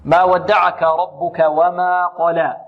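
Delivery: very slow ما ودعك with thin, light letters; slow recitation. Shown as a demonstration. Teacher reciting the verse slowly to model it. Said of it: "القاف هنا".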